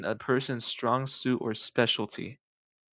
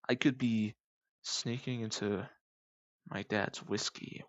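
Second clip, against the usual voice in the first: secretive whisper; 9 dB quieter than usual. Real, not acted. Confessing secret whiskey sneaking.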